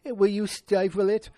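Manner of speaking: high, loud catchphrase impression; Archie Bunker. Host imitating the husband silencing his wife, exasperated impression. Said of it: "the names he's calling people".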